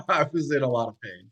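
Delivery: real laugh carried into the words; amused admission, still laughing. Real, not acted. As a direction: say it through leftover laughter. Both laughing over the ordeal.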